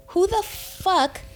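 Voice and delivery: slow, high incredulous demand; outraged disbelief. Retold or imitated. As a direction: draw each word out, indignant. Retelling her outraged confrontation.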